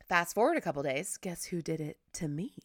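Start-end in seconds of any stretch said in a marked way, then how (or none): 1.2-2.5 whispered tease. Real, not acted. Teasing reveal.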